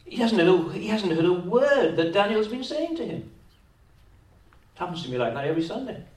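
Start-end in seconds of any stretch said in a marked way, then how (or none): 0.1-3.3 raised emphatic preaching. Acted. Preacher driving the point.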